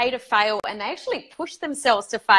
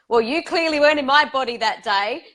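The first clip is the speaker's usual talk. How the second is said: amused, laughing; 5 semitones higher than usual. Real, not acted. Amused retelling of own Facebook Live nerves.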